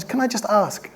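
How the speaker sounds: lightly put-on South African accent; a hint of a South African accent. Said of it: "sorry about my bad South African accent".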